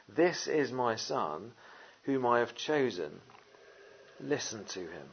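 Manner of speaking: slow, measured words from the cloud; God the Father speaking. Acted. A hint of God the Father speaking slowly from the cloud. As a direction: let each word land slowly. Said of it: "God the Father speaks".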